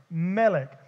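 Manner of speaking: "melech" said slowly as MEH-lek, stress on the first syllable; Hebrew word said carefully. Shown as a demonstration. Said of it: "That is king in Hebrew".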